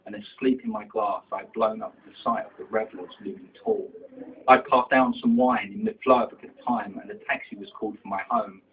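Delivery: driving, rhythmic verse delivery; poetry recitation. Acted. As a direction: recite rhyming verse, punching the line openings. Resumes reciting the poem.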